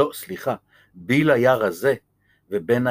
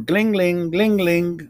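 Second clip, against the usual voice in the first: phone ring imitation; 6 semitones higher, faster than usual. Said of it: "זה היה צ'רלי".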